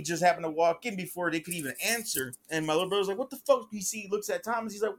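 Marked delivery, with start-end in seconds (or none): 3.2-3.7 retold outburst, pitched up without shouting; high-pitched, indignant mock snap; snapping. Little brother confronting the attackers, retold snapping. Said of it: "he's snapping on him".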